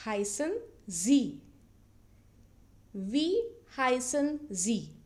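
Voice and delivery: slow, careful Wie heißen Sie; German model phrase. Shown as a demonstration. Teacher modelling Wie heißen Sie slowly for the class. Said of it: "Now you have to tell your name".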